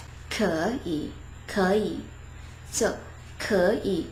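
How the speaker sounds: 可以 said smoothly, 可 rising before a dipping 以; tone change. Shown as a demonstration. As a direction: join 可以 with the first tone lifted. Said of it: "It's a lot more smoother".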